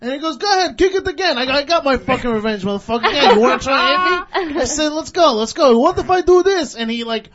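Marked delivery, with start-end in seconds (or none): 0.4-4.6 loud re-enacted taunting; retold angry dare. Retelling the stand-off with the cabbie, loud taunts. 4.9-6.7 loud, re-enacted goading, pitch raised; retold fighting challenge. Driver and cabbie square up, retold loud challenge.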